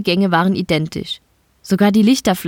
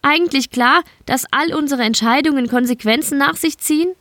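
put-on higher young woman calling out; calling after; 7 semitones higher than usual. A narrator's reading. Elina calling after departing Mike, higher voice. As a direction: call after him as he leaves. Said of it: "Elina hinter sich rufen".

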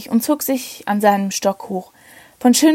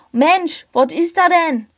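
put-on Berlin accent; 6 semitones higher than usual. German voice on the radio.

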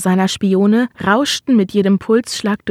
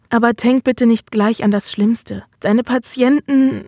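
Stimme bricht ab; 2 semitones higher than usual. Acted. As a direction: voice breaking off mid-sentence. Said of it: "ihre Stimme brach ab". (stockend, mit brechender Stimme)

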